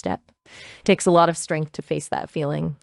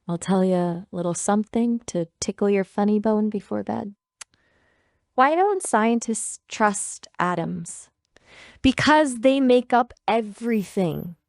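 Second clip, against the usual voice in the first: cosy British bedtime joke-teller; British accent; 2 semitones higher than usual. Pretend. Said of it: "bedtime joke in British accent".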